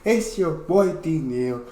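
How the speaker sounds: high, loud, drawn-out opening holler; hype-man channel opener; hyped intro shout. Acted. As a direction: stretch out a big, high-pitched greeting to the fans. Shouted channel intro greeting to viewers.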